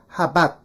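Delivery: "how about" as "ha-bat"; elided two syllables. Shown as a demonstration. Teacher modelling for the class, elided into two syllables. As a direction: merge "how about" into "habat", no glides. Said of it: "이렇게 발음해 볼게요".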